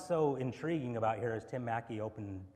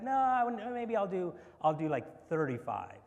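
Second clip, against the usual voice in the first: high mock seller; 6 semitones higher, 4 dB louder than usual. Acted seller, higher voice.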